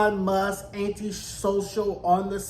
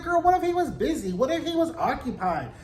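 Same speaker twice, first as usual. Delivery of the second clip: sassy outrage; 5 semitones higher than usual. Retold or imitated. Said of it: "I was like".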